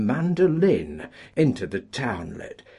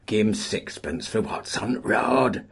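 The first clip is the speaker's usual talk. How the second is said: sly; 4 semitones higher than usual. Acted. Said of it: "said a sly voice".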